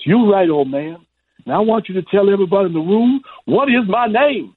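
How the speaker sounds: high-pitched, showman champ impression; Muhammad Ali. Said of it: "and he goes".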